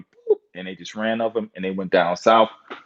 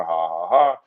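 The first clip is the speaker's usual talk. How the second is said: a scornful spoken ha ha ha; mocking laugh; 4 semitones lower than usual. Laughing off the brother's claim that he is Indian. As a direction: laugh it off as nonsense. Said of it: "I was laughing".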